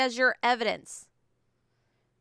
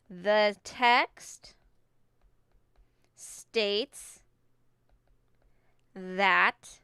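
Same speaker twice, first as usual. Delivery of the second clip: dictating; much slower than usual. Shown as a demonstration. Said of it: "I'm doing exact evidence".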